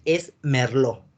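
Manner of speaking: Merlot said slowly as mer-LO, no final T; silent T. Shown as a demonstration. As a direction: drop the T in Merlot. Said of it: "Esta T no la queremos".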